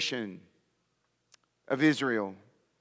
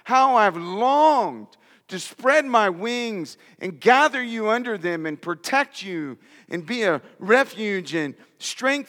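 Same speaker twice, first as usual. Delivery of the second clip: passionate lament. Acted. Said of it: "with passion and compassion and sadness".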